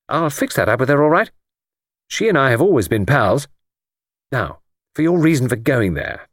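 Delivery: breezy, confident pal with a plan; breezy Jimmy. Acted. Jimmy briefs his friend on a cover story, breezy. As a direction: lay out the plan briskly and cheerfully.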